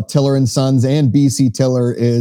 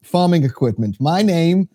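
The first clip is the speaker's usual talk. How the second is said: lightly put-on German accent, a hint of a German cousin; hammed-up German salesman in a Christmas ad, mildly done; German cousin pitching a nutcracker sale in a light German accent; 2 semitones higher than usual. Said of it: "needs to be in a German accent".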